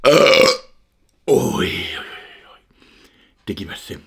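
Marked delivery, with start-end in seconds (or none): 0.1-0.6 sudden loud, high cry of delight; a real yelp of pleasure. Real, not acted. Savouring a sweet treat. 1.3-2.6 fading to an awed whisper; hushed, voiceless oi, oi, oi. Real, not acted. Savouring a sweet treat.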